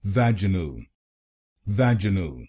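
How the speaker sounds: "vaginal" said VEJ-ə-nəl, American way; American pronunciation. Shown as a demonstration. Teacher demonstrating American "vaginal" to Hindi learners. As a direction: say "vaginal" with a short "vej" up front. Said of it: "American English में इसको बोलेंगे".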